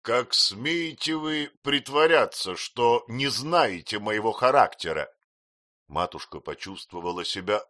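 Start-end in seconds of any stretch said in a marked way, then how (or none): 0.0-5.1 loud, slow, commanding; thundering command. A narrator's reading. Brother commanding his wife, thundering. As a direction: order her silent. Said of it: "прогремел её брат".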